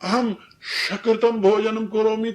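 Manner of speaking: slow, mock guest saying शकृतम; wrong palatal sh. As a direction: slowly mispronounce with sh. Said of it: "यदि वो कहे".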